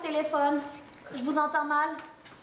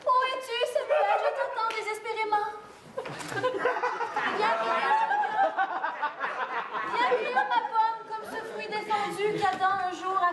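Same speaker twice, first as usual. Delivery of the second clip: melodramatic longing; 4 semitones higher than usual. Acted. Lovelorn melodramatic calling.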